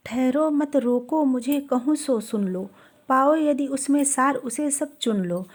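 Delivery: measured verse reading; poetry recitation. Acted. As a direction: recite the couplet in even metre. Recites verse again before explaining.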